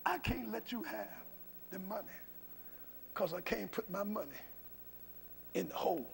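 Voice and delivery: subdued retold refusal. Preacher quotes the lender's refusal letter, subdued. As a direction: read the bad news low and haltingly.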